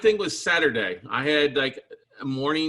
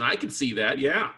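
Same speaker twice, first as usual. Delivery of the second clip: ordinary delivery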